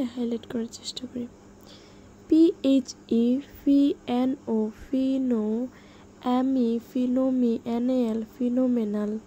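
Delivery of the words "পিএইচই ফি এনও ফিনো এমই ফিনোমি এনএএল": slow, broken-up spelling drill; spelling by syllables. Shown as a demonstration. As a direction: spell it out chunk by chunk for learners. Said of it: "ভেঙে ভেঙে, সিলেবলগুলো ভেঙে ভেঙে". (সিলেবল ভেঙে ভেঙে বানান)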